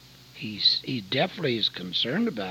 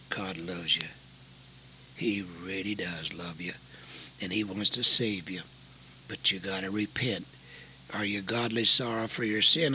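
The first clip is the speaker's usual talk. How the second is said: tender pastor; 3 semitones lower, 4 dB quieter than usual. Retold or imitated. Pastor consoling at 3am.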